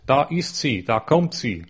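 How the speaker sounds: understated joyful exclamation; joyful call. Acted. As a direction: announce the arrival with a touch of delight. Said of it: "rief freudestrahlend".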